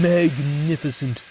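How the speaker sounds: loud pompous proclamation; grand declaration. A narrator's reading. Horace back to himself, pompous. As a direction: proudly proclaim. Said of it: "Horace declared".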